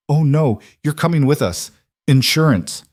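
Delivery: high, scornful retort; defiant. A narrator's reading. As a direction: taunt him as you grab him. Grabs prisoner defiantly.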